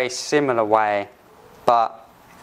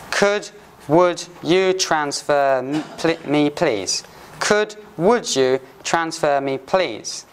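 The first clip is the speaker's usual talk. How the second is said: slow polite request; slower than usual. Shown as a demonstration. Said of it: "the difference between could and would".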